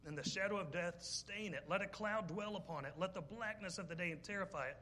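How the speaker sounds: preacher reading Job aloud to the congregation, solemn; scripture reading. Acted. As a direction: intone the verses gravely from the pulpit.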